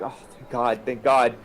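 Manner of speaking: acted tearful relief with sighed ohs; overwhelmed reunion, lightly acted. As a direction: let relief spill out between heavy ohs. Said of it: "she's just crying".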